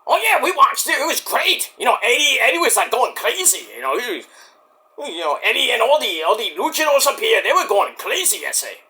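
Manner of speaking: excited character with a mock Mexican accent; Mike. Mike reporting on the pay-per-view, high mock Mexican accent. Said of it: "why did I give you a Mexican accent, Mike".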